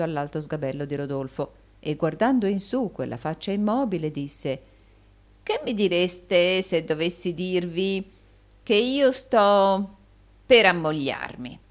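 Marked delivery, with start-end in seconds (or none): 5.4-11.6 very slow, stretched-out question; slow build to a louder finish; hesitant reveal. A narrator's reading. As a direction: draw out each phrase with pauses. Gride springs his marriage news.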